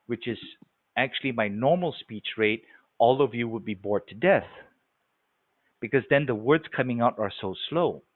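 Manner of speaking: slow and measured; real slow. Shown as a demonstration. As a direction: ease right down into a slow speech rate. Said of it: "if I talk like this real slow".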